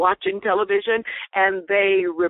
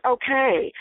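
grudging okay; 5 semitones higher than usual. Retold or imitated. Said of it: "the tone that had a different intention".

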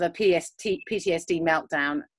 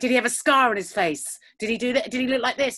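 higher-pitched mock urgent questions; imitated anxious questioning; 6 semitones higher than usual. Mother questioning housekeeper about a stranger, mock anxious. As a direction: press each question, pitched up.

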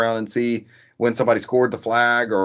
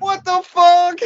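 high stunned disbelief; shocked; 7 dB louder, slower than usual. Real, not acted. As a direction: blurt it out in shock. Reacting to demon voice.

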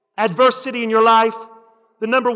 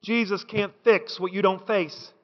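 softer and low, let it land; quiet first take; 4 semitones lower, 8 dB quieter than usual. Real, not acted. Preacher softly first says it to the church. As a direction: quietly set up the key line. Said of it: "repeated line".

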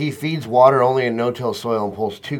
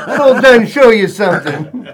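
loud, slow mock Rhode Island drawl; Rhode Island accent; 8 semitones higher, 9 dB louder than usual. Co-host joins in imitating the friend, exaggerated Rhode Island accent. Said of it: "that Rhode Island accent is like".

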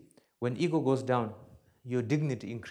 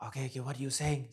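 grumpy; 4 dB quieter, much faster than usual. Retold or imitated. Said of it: "I'm a little bit grumpy in my talk".

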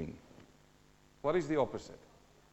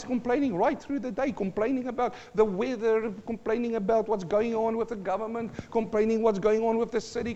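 unbroken run-on list on a raised, level pitch; relentless listing; 3 semitones higher than usual. Shown as a demonstration. Preacher mocking nonstop complainers, relentless run-on delivery. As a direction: pile up the items without a breath.

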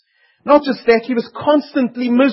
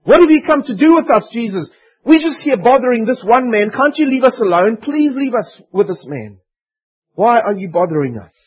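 panicking demons; 3 semitones higher than usual. Acted. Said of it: "These demons were panicking".

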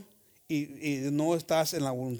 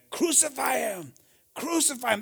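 mob cry; 8 semitones higher than usual. Acted. Preacher voicing the crowd before Pilate, high mob chant.

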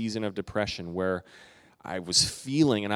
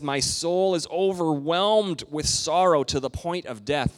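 a higher, slowed, grieving voice; Jesus in sorrow; 6 semitones higher, 4 dB louder than usual. Retold or imitated. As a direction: let Jesus' sorrow weigh on each word. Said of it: "he says".

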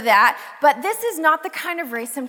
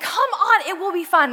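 coaxing friend; 3 semitones higher than usual. Retold or imitated. Amanda coaxing, voiced higher.

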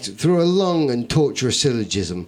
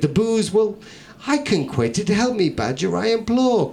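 mild mock pleading, pitched up high; imploring; 4 semitones higher than usual. Hungover narrator begs the badger for help, hammed-up pleading. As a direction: beg the badger like a desperate drunk. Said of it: "I continued, I implored".

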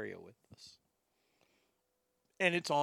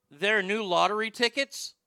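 imitated disbelief, pitched higher and louder; astonished question; 6 semitones higher, 5 dB louder than usual. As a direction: ask it like it's news to you. Acted mumbler's clueless astonished question, punchline.

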